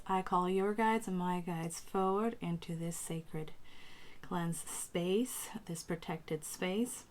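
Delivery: deliberate ritual calling, paused between phrases; spoken invocation, slowing at the close; invocation of guides. Acted. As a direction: summon the guides in measured, prayerful phrases. Calls in spirit guides.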